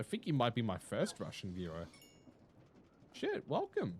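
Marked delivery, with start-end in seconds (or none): 3.1-3.9 excited welcome. Real, not acted. Greeting first Russian viewer.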